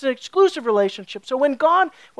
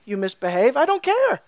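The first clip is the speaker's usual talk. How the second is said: mock indifference, pitched up at the end; uncaring father. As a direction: play a dad who can't be bothered. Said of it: "the father doesn't really care".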